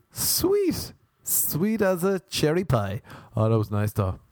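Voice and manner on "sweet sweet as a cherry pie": savouring. Real, not acted. Savouring the rejection.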